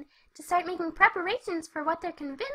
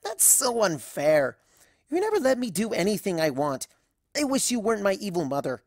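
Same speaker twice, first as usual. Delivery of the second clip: whiny mortified cry of Mother; a daughter cringing at her parent; embarrassed teen daughter; 8 semitones lower, 3 dB louder than usual. Acted. Daughter mortified by her mother, whiny cry.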